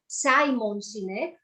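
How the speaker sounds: slow and carefully spelled out; over enunciating. Shown as a demonstration. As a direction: say the name slowly, every syllable clear. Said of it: "let me say it slowly".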